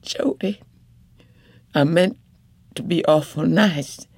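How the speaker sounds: a wife pleading but firm at the bedside; determined wife. Acted. Wife voiced in story.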